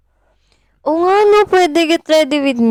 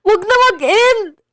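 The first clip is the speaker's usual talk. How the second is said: high, loud put-on voice on "Wag na mag-end"; high-pitched pleading voice; different voice; 6 semitones higher, 4 dB louder than usual. Shown as a demonstration. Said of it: "nakita niyo yung pag-iba-iba ko".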